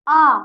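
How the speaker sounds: आ held long; long vowel. Shown as a demonstration. Teacher showing double-length vowels, आ drawn out. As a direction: stretch out आ. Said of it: "ऐसे थोड़ा ज्यादा बोल रहे हैं".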